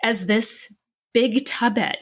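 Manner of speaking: real tears, voice breaking on the words; crying. Real, not acted. Telling her podcast co-host about her body shame, crying. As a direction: push through the words while crying. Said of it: "Oh, I am crying now".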